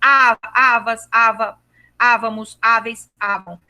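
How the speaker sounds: slow start, "avas" with V brought out; V sound stressed. Shown as a demonstration. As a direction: make the V in "ava" and "avam" clear. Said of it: "o som do V bem em destaque".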